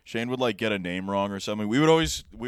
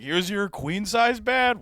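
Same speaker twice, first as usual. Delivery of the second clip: slow mock host; 9 semitones higher, much slower than usual.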